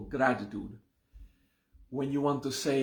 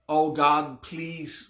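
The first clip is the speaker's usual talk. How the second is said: pleading prayer; 2 semitones higher, 4 dB louder, much slower than usual. Retold or imitated. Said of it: "when there's a please".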